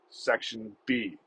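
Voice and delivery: "Section B" drawn out very slowly; slow dictation. Retold or imitated. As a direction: mimic a clerk slowly copying "Section B" into a notebook. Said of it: "Next one, quote".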